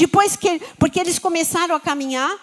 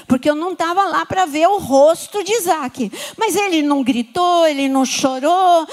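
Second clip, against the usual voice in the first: usual speaking voice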